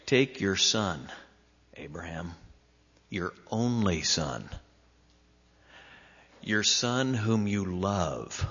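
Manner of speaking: slowed, gentle and careful. Retold or imitated. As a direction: linger on only son. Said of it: "He said it very carefully".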